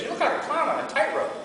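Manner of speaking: teasing critic. Retold or imitated. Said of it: "somebody says".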